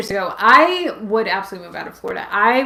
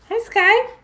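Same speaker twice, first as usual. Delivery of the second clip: high, bright hello to a pet; pet greeting; 13 semitones higher, 6 dB louder than usual. Real, not acted. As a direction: greet the dog in a high coo. Greeting her dog.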